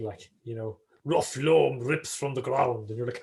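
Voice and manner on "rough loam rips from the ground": slow, weighty parody of a poet; drawn-out mock verse recital; mock Seamus Heaney. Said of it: "everyone trying to be famous Seamus".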